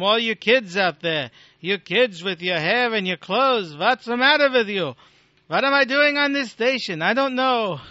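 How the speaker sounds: badly faked, exasperated Jewish-accent kvetch. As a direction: scold the kids in a mock Jewish accent. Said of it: "talking in this bad Jewish accent".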